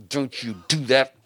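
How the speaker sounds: a hint of a bossy parent; mock stern command. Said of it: "he doesn't just say a boundary like".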